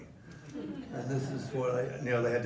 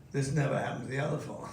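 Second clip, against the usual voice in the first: quoting the line; faster than usual. Retold or imitated. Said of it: "Say that line of yours".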